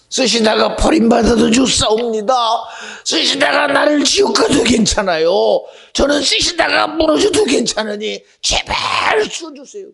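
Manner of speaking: imploring prayer, climbing in pitch; pleading prayer building. Retold or imitated. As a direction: beg to be used, rising to a cry. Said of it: "그렇게 기도해요".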